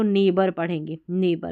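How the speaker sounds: नेबर as "nay-bar", no g; long "ay" in नेबर straight into b; silent GH. Shown as a demonstration. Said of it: "जीएच इसमें भी नहीं पढ़ा गया".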